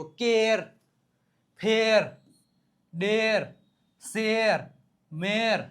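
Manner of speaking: કેર, ફેર, ડેર spaced out with long eh before r. Shown as a demonstration. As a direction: model કેર through મેર word by word, vowel held. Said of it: "જો, એ આવ્યો". (કેર થી મેર સુધી એ લંબાવીને)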